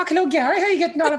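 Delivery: very high, squeaky voice. Acting out greeting someone, really high-pitched voice. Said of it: "if I met someone really high pitched".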